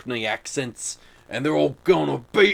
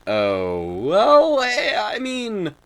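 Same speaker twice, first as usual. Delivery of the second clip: hesitant stammer; 3 semitones higher, 5 dB louder, much slower than usual. Retold or imitated. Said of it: "And I just was like".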